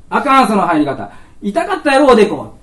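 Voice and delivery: put-on child fussing over the principal's forehead; bossy child. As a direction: fuss over him like a little kid.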